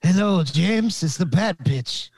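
hammed-up French accent; Pepe Le Pew accent. Podcaster playing a pop singer for his co-host, in a mock French accent. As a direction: put on a cartoon Frenchman's accent. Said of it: "It sounds like you're Pepe Le fucking Pew".

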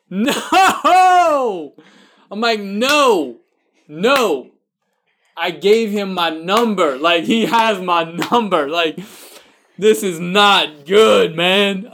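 high, rising alarm that peaks in a slow shout; comic dread, pitched high, ending in a slow yell; mock panic. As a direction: play up the horror of giving away his number. Retold panic over vocation director.

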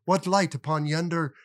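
lightly hammed Shakespearean delivery; hammy stage actor. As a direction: recite like a mock stage actor. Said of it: "Hallmark movie set to Shakespeare".

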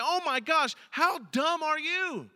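exasperated onlooker's judgement; mock disbelief. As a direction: scoff at their foolishness, stretching the question.

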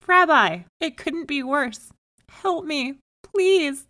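loud, high lament, piling up the troubles; desperate cry. A narrator's reading. Poor man listing his misfortunes to the rabbi, loud desperate cry. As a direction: wail your complaints at full voice. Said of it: "he cried".

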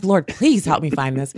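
hammed-up impatient plea; mock frustrated demand. Host mimicking herself frustrated while searching. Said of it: "I'm like".

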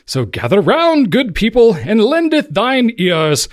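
put-on grand Shakespearean proclamation in amateur British accent; attempted British accent. Host reading a Shakespearean show intro, hammed-up British accent. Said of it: "somewhat of a British accent".

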